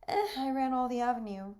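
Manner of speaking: put-on panting boy. Boy who ran all the avenue, excited and winded. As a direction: burst out with it like a child just arrived running. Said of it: "flushed with panting".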